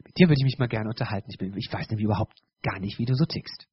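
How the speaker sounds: lightly acted, dropping low and quick after the opening word; acted friendly approach. Churchgoer approaching a difficult brother, lightly acted approach. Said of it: "Oder ich kann auch hingehen".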